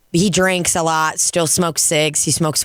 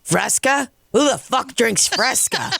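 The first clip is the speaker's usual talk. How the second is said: high-pitched retold disbelief; incredulous mocking; 8 semitones higher than usual. Old regular roasting bartender's soda, incredulous mocking. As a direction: question it as if utterly baffled.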